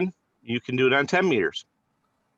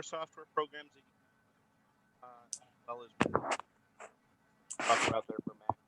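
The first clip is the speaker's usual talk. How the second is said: fading out; 10 dB quieter, slower than usual. Real, not acted. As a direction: voice dropping away on auto gain. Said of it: "You keep fading out".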